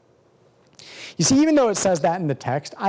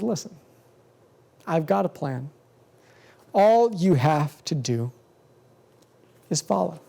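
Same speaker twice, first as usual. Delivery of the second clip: gentle God. Acted. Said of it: "ever so gently and says".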